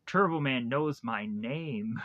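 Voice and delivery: slow, mildly awed retelling; retold awe. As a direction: imitate a kid lightly marvelling. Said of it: "Jamie looks in awe".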